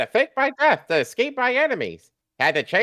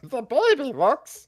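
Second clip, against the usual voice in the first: slow, hesitant start; slower than usual. Acted. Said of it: "Charlie started".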